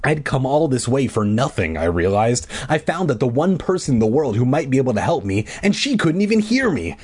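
animated audiobook reading; story narration. A narrator's reading. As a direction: read it like a kids' adventure story. Reads a novel aloud.

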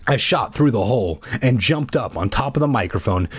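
animated audiobook reading; story narration. A narrator's reading. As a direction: read it like a kids' adventure story. Reads a novel aloud.

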